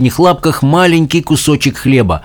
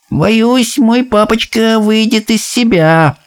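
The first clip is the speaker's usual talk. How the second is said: gloomy; 10 semitones higher, slower than usual. A narrator's reading. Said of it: "мрачно произнёс Бруно".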